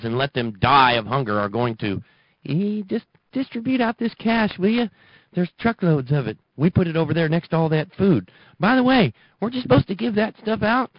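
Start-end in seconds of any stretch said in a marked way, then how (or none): 2.5-10.9 much higher mock bureaucrat voice; hammed-up high-pitched official. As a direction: play a clueless official, pitched up.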